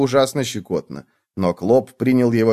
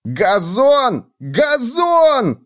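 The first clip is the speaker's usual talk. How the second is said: high shriek climbing higher; delighted shouting; 13 semitones higher, 3 dB louder, much slower than usual. A narrator's reading. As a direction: squeal it out in glee. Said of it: "кричал Клоп, от восторга стуча ногами".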